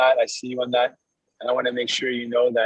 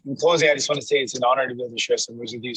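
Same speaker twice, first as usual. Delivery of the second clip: talking on a moving bus; jostled by a bumpy ride; on a bumpy road. Real, not acted. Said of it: "Sorry for the bumpy ride".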